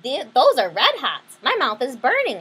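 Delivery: hammed-up hot-mouth yelp; mock yell. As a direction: pretend the candy burns. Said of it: "I yelled".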